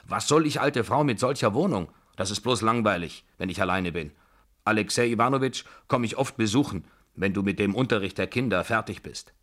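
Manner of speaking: a hint of a bossy old lady; lightly voiced Babuschka. Babuschka telling the tutor of her plans, lightly bossy.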